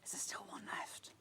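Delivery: soft whispered question; hushed whisper asking about stock. Real, not acted. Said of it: "Don't know why I'm whispering".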